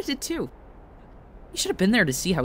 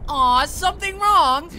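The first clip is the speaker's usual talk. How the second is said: higher, louder, slow sing-song mockery; mocking taunt; 13 semitones higher, 6 dB louder, slower than usual. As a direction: sweetly taunt a beaten foe. Villain taunting beaten rival.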